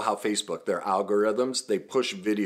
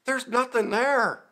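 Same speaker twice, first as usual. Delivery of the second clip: louder mock reality check; blunt self-talk; 5 dB louder than usual. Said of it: "I see pictures, I'm like".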